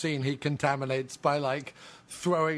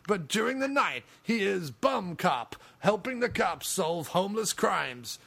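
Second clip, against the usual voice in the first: mock trailer voice; 4 semitones higher than usual. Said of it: "the idea was called Bum Cop".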